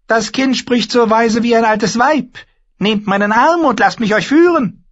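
very high, loud, eerie warlock voice; a thin, uncanny sorcerer. Acted. The warlock Pyat Pree bars the way, high and eerie.

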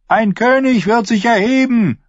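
high, loud shout of the drowned men; crowd calling out. Acted. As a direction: call it out fervently as a crowd. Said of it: "riefen die Ertrunkenen". (die Ertrunkenen rufen laut im Chor)

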